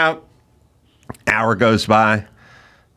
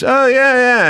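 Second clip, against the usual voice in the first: eager bartender; 8 semitones higher, slower than usual. Retold or imitated.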